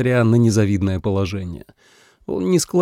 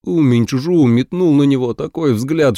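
ordinary delivery, nothing marked

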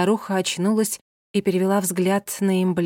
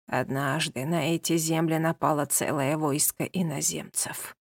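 put-on old woman in trance; 2 semitones lower than usual. Old woman tells legend in trance.

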